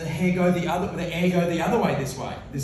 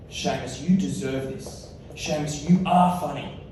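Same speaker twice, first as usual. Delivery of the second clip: gentle self-talk; 3 semitones lower than usual. Retold or imitated. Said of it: "write a message to my inner child".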